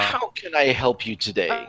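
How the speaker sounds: lightly voiced slick dealer, starting high; a hint of oily sales patter; slick salesman. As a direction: offer service like a slick salesman. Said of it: "the slickest looking human".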